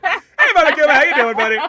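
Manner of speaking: high, loud hammed-up hello; loud mock greeting. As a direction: greet the bear like an old pal.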